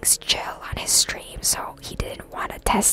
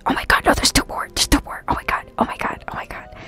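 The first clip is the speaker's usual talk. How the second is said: louder, fast excited whisper; 6 dB louder than usual. Real, not acted. Streamer spotting two more levels, excited whisper. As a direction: gasp it out, thrilled and hurried. Spots extra levels in game.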